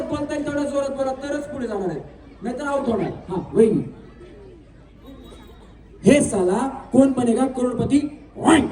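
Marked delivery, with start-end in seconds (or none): 6.0-8.7 slow, measured line with a punched last word; game host's deliberate model take, ending on a punch; forceful demo. Shown as a demonstration. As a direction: show them how much force to put in, word by word. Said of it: "अशी ताकद लावा".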